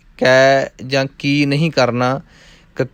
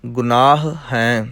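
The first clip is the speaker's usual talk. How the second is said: ਗੁਨਾਹ then a small pause before ਹੈ; ਗੁਨਾਹ ਤੋਂ ਬਾਅਦ ਥੋੜ੍ਹਾ ਰੁਕ ਕੇ ਹੈ; pause after word; slower than usual. Shown as a demonstration. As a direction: say ਗੁਨਾਹ, stop briefly, then ਹੈ. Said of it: "ਥੋੜ੍ਹਾ ਜਿਹਾ ਰੁਕਣਾ ਹੈ".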